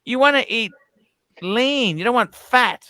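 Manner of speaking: high, loud ranting. Real, not acted. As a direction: shout it at the guys. Ranting at viewers about pizza.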